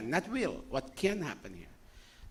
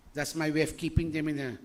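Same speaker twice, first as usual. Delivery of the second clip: normal talking voice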